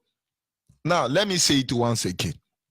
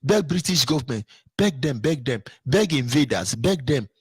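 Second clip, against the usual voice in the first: mocking advisor. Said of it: "The person say".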